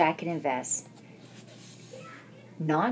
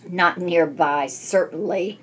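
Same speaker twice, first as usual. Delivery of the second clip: huffy; 5 dB louder than usual. Acted. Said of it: "huffed the badger".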